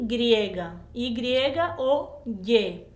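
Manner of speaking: "Y o Y" drawn out slowly, letter by letter; slow letter names. Shown as a demonstration. Teacher naming the letter Y very slowly. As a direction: spell out the two names slowly. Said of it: "hay otro nombre para ella".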